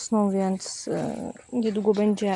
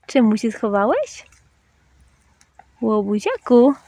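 pet talk; 3 semitones higher, 6 dB louder than usual. Real, not acted. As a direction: coo the pet name to the dog. Doting talk to dog. (czułe mówienie do psa)

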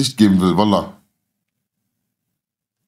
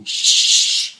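mocking high voice; 8 semitones higher, slower than usual. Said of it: "Der so".

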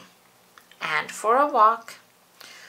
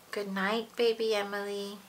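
much softer tender goodnight; 6 dB quieter than usual. Pretend. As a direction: say it so the baby drifts off. Saying goodnight to baby.

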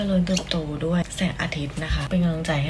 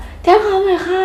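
much higher, louder slow call; mock shout; 12 semitones higher, 8 dB louder than usual. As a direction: yell it across to the police station. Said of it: "คือตะโกนบอกว่า".

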